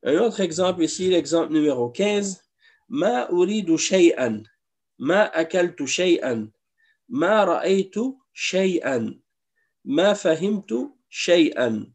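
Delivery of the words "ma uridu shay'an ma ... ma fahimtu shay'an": slow drill of "Ma uridu shay'an", each "ma" stretched with a falling close; slow emphatic reading. Shown as a demonstration. Teacher drills Arabic negation for students, slow and emphatic. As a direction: read the drill slowly, leaning on every "ma". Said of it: "c'est l'emphase ici".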